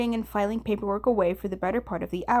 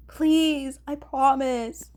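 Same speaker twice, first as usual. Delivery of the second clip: higher, slow earnest plea; pleading; 5 semitones higher, 3 dB louder, much slower than usual. Acted. Atsushi pleading with Kunikida, slow earnest promise. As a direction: beg him to believe you.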